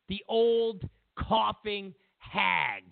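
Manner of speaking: drawn-out sneering shout of "hag"; slow mocking shout. Real, not acted. Ranting about Hillary, shouts a slow insult. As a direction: shout the insult slowly, with scorn. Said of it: "sneering insult".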